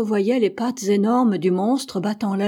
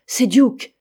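higher, louder cry of recognition; exclaiming; 4 semitones higher, 8 dB louder than usual. A narrator's reading. Hatteras hears his dog barking below, exclaiming. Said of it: "s'écria Hatteras".

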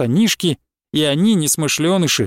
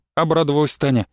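plain reading voice

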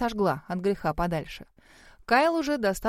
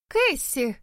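an angry call with the name raised high; 5 semitones higher than usual. A narrator's reading. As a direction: she calls out her rival's name in anger. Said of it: "злобно цокая каблуками". (злой окрик по имени, голос выше)

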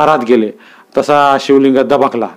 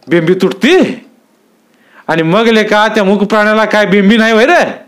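higher, scornful throwing back of बिंबी तुटती; mocking echo; 7 semitones higher than usual. A narrator's reading. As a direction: sneer the words back at him. Headman mocking the plea back.

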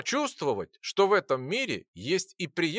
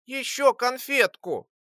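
high, slow squeaky begging; plaintive plea; 9 semitones higher, slower than usual. A narrator's reading. Lora begging the alchemist for candy, plaintive squeak. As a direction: whine for one more candy. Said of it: "жалобно попросила Лора".

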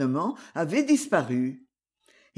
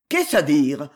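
grondement; 4 semitones lower, 5 dB louder than usual. Acted. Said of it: "gronda Darsac".

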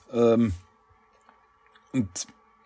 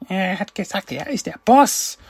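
much higher, squeaky pleading voice; squeaky whine; 10 semitones higher than usual. Retold or imitated. Leonardo whimpers to the huge grandson, squeaky and high. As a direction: whine it up high like a caught kid.

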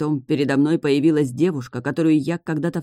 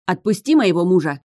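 desperate shout; 4 semitones higher, 4 dB louder than usual. Acted. Wife lunges at sea king.

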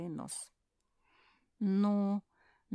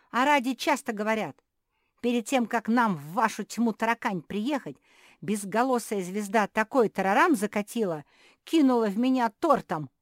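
loud; 6 semitones higher, 12 dB louder than usual. Acted. Krikunya loudly complains.

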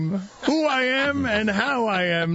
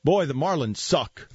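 lower, gruff dad greeting; imitating dad's greeting; 5 semitones lower than usual. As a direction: mimic the father's blunt hello. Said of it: "this is how he greets me".

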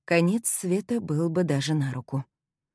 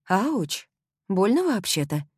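indignant ouch; 4 semitones higher, slower than usual. Acted. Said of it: "начала возмущаться я".

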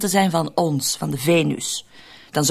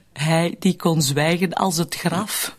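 mock epitaph; slower than usual. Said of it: "Mooi grafschrift voor een begrafenisondernemer".

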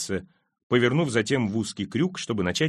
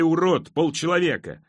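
raised, high shout; crowd jeer; 6 semitones higher, 3 dB louder than usual. A narrator's reading. Crowd shouts insults at the dwarf, high jeer. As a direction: call out insults, pitched up. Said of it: "Тириону кричали".

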